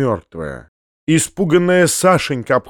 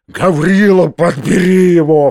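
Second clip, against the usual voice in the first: loud, raised order; crying out; 4 semitones higher, 5 dB louder than usual. A narrator's reading. Uncle orders Gavrila to collect Foma, shouting. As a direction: shout the command at a servant. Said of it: "вскричал дядя".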